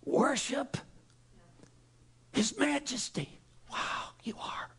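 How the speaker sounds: soft, awed whispered praise; worship whisper. Shown as a demonstration. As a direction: breathe the words in awe. Demonstrating worshipful singing.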